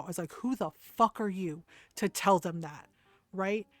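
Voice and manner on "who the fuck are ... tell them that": retold indignant challenge, punched words; retold anger. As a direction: replay a mad mother's challenge, without shouting. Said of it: "I got really fucking mad".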